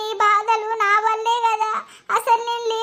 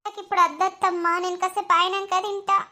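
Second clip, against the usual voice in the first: teary; 3 semitones lower than usual. Acted. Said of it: "అరే గాని ఏడవకురా".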